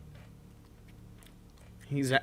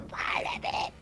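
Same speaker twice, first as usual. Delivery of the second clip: whisper; 4 dB quieter than usual. Acted. Repeated whispered.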